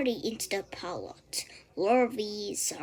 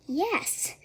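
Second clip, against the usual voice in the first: sweet musical voice; 9 semitones higher, 4 dB louder than usual. A narrator's reading. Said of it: "she replied in a sweet, musical voice".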